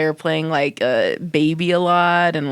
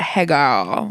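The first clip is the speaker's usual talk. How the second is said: put-on kids' cartoon girl fish voice; 3 semitones lower than usual. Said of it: "girl fish that talks like".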